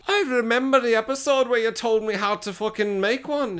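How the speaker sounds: upset nerd. Retold or imitated. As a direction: play the let-down fan confronting them. Nerd confronts hoaxers in retold scene.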